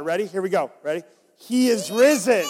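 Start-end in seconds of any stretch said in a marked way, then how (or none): 1.4-2.4 call louder. Shown as a demonstration. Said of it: "You can definitely be louder".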